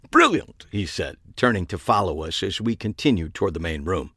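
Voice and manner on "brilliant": high, loud British exclamation; delighted, high-pitched British approval; affected British accent. A narrator's reading. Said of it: "a British accent or a deep-seated affectation".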